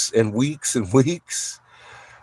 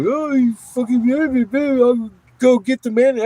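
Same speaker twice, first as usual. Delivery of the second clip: mock angry cop; 11 semitones higher than usual. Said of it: "He was like".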